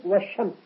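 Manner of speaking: "والشمس" as wash-shams; silent lam. Shown as a demonstration. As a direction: leave the l out of "والشمس", doubling sh. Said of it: "ولا تظهر في النطق". (لام "والشمس" لا تنطق)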